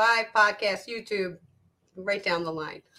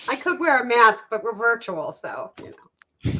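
stuffy nose. Real, not acted. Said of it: "pardon me, I have a cold".

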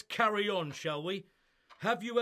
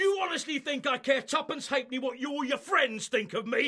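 higher, scornful shouted retort; angry shout; 4 semitones higher than usual. Acted. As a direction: hurl it back in fury. Heated row with the solicitor.

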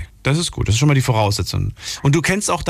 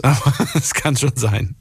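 laughing. Real, not acted. Laughs at his own remark.

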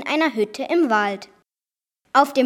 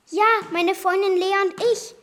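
higher, startled answer; startled reply; 6 semitones higher than usual. Acted. Girl answering the unseen voice, higher and startled. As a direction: blurt it out in fright. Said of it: "entgegnete ich erschrocken".

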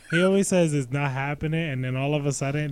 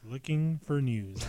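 slower, clearer repeat; 4 dB quieter, slower than usual. Real, not acted. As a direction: say it again slowly so they catch it. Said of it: "What did he say?".

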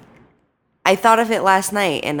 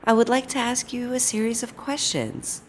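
exaggerated cartoon intonation; 5 semitones higher, 5 dB quieter than usual. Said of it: "why are you act-, talking like that?".

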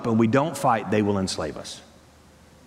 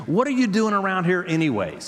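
mildly indignant, higher-pitched demand; angry older brother; 6 semitones higher than usual. Retold or imitated. Eliab confronting young David, mock angry. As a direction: challenge him in a raised-pitch preacher's retelling. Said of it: "he was angry".

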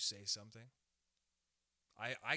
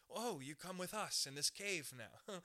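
slow, higher-pitched mock invitation; chosen-group recruiter; 5 semitones higher, slower than usual. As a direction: lightly put on a beckoning voice. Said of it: "where there's like".

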